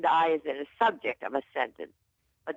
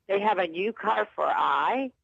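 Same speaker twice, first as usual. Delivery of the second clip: wrong on purpose. Shown as a demonstration. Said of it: "that doesn't sound right".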